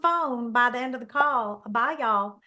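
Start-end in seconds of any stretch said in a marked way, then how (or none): 1.7-2.4 put-on Southern accent. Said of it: "I'm like".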